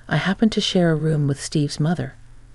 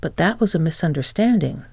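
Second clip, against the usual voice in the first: quick interjection. Acted. Mike hurriedly interrupts his ex-wife with an excuse, quick. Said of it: "I quickly interjected".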